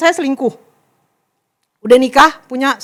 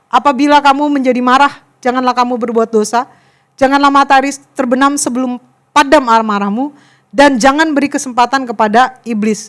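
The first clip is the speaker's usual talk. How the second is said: scripture recitation; 4 dB louder than usual. Acted. Quotes scripture to listeners.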